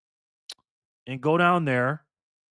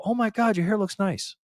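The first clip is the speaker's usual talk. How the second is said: gushing compliment; 6 semitones higher than usual. Retold or imitated. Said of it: "they say it just like that".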